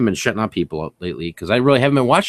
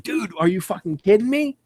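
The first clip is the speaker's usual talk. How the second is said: excited; 8 semitones higher than usual. Retold or imitated. Excited find while thrifting.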